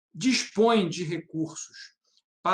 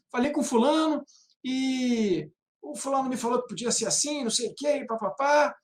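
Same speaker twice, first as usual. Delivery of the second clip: higher, mildly raised imitation of the tenant; a touch of a raised, insistent voice; 6 semitones higher than usual. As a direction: mimic the tenant pushing back in a raised voice. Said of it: "com um tom de voz já elevado".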